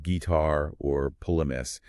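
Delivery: "guitar" stressed on its second syllable, as an exception; exceptional stress. Shown as a demonstration. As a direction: demonstrate "guitar" with the weight on "tar". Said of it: "you get exceptions like".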